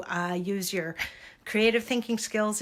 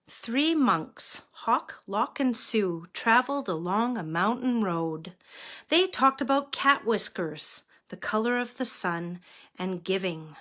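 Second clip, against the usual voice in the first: measured picture-book reading; story narration. A narrator's reading. Reader telling children of three travelling monks, story narration. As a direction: read a children's story aloud.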